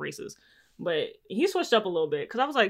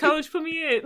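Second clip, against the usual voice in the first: mock shout; 8 semitones higher than usual. Mock begging coach to play.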